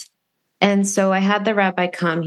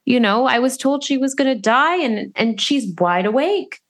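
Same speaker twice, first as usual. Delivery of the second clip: retold excitement; 6 semitones higher than usual. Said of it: "I said".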